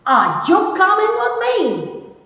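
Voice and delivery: "Are you coming with me?" pitched high as a clear question; "Are you coming with me?" with high, questioning tune; question intonation. Shown as a demonstration. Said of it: "A question should be projected as a question".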